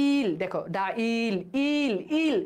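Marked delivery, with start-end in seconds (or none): 0.8-1.3 "ডাইল" pulled apart, long ই; fully pronounced. Shown as a demonstration. Teacher breaking the word open, "ডাইল" drawn out. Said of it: "পূর্ণরূপে উচ্চারণ হচ্ছে". 1.7-2.4 "ইল" isolated with a whole ই; fully pronounced. Shown as a demonstration. Teacher isolating the vowel, "ইল" sounded fully. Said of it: "পূর্ণরূপে উচ্চারণ হচ্ছে".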